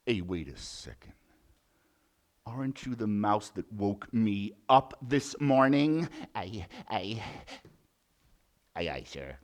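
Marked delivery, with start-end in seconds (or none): 0.1-6.1 low gruff lion. Acted. Lion recognizes mouse.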